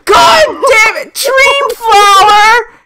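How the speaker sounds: high, loud, drawn-out shouting; excited shout. Real, not acted. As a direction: yell the name out in delight. Calling out excitedly to a viewer.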